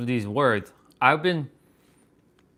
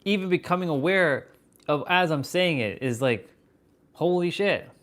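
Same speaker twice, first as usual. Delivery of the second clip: higher, a little louder, genuinely awed; amazed; 6 semitones higher, 4 dB louder than usual. Real, not acted. Realizing it as he speaks, awed and excited. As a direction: let the wonder lift the voice. Amazed at his own word choices.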